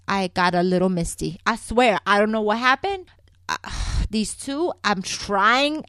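usual speaking voice

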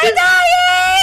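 high, loud fake panic shout; mock alarm. Two soap fans mockingly yelling about the dying characters, loud. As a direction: scream it like melodrama. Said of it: "Jordan and I are like".

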